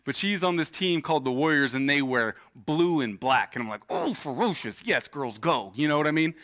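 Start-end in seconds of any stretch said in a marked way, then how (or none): 3.9-5.7 mock cheer. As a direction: cheer the girls on in jest. Proud dad cheering the team name.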